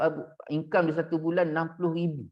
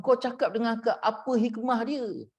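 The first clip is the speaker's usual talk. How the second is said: retold snapping demand; 5 semitones higher than usual. Wife pressing husband's confidant for the hidden wisdom, retold snapping demand. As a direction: mimic an insistent, mildly snapping demand. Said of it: "dia bentak-bentak kita".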